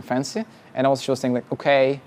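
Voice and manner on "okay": lightly imitated American accent. Founder imitating her fancy word, light American accent. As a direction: say it with a touch of American. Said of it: "like, with the American accent".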